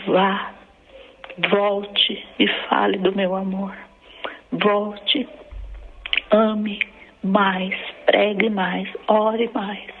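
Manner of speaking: measured, deliberate divine charge; lightly voiced God, solemn and spaced out; voice of the Lord. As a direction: speak as God commissioning a daughter, with weighty pauses. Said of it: "ele disse dessa forma pra mim".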